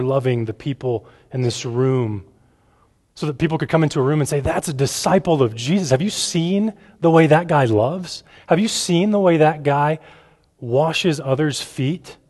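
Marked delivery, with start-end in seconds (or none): 4.4-12.2 higher, mildly marvelling voice; amazed onlooker. Acted. People coming into a room talk about a disciple, mildly amazed. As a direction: lightly act out an impressed bystander.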